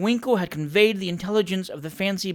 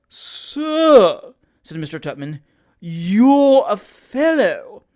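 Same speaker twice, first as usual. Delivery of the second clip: angry retort; 3 semitones higher, 8 dB louder, much slower than usual. Acted. Quarrel, Tupman.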